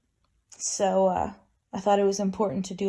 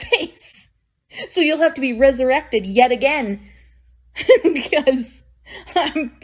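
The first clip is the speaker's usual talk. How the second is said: louder, giggling through the threat; laughing mock threat; 3 semitones higher, 4 dB louder than usual. Daughter jokingly threatening her dead mother, laughing. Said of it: "It's like".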